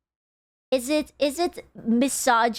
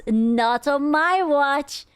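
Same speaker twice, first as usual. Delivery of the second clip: HOA busybody voice; 3 semitones higher, much slower than usual. Retold or imitated. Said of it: "those hoa people".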